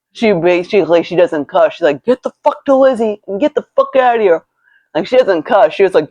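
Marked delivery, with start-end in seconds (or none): 2.0-4.4 high-pitched urgent mom voice; imitated alarmed mother. Mother on the phone ordering daughter out, high urgent imitation.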